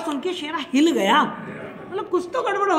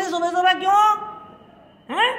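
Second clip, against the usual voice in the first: sharp retort; 5 semitones higher than usual. Retold or imitated. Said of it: "बड़ी तेज में आके बोली".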